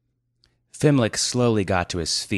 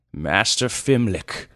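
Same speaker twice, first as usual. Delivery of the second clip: put-on polite old man; 3 semitones higher, 4 dB louder, slower than usual. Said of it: "he said politely".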